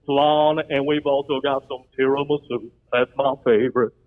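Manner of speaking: lightly voiced crooner-style waiter; a hint of a famous crooner with stretched words; country crooner voice. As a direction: offer it like a country crooner impersonator. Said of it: "kinda like a country, it's kinda like a crooner".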